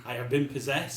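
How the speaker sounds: eerie possessed demon voice. Pretend. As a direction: speak like something has taken over you. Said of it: "He's, like, speaking in tongue now".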